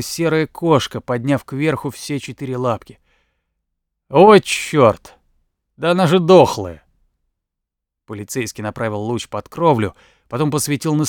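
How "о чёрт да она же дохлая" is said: startled exclamation. Acted. Cop finds dead cat.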